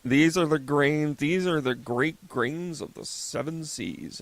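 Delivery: slow, loud, grandiose announcer; mock server pitch. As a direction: oversell the grains like a pompous waiter. Mocking vegan server's pitch.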